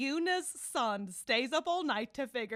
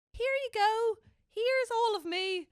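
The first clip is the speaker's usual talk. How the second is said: higher, louder and slow, heart held out; vulnerable offering; 11 semitones higher, 10 dB louder, slower than usual. Pretend. Host voicing someone saying I love you, higher, louder and slow. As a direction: plead it like you are handing over your heart. Voicing a lover's scary confession.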